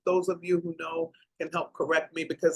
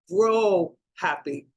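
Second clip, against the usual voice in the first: choked up; slower than usual. Real, not acted. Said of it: "Oh, I'm so sorry".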